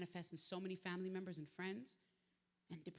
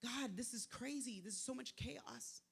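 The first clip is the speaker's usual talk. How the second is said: retold distress; 4 semitones higher, 4 dB quieter, slower than usual. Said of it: "I was sitting in the bed crying".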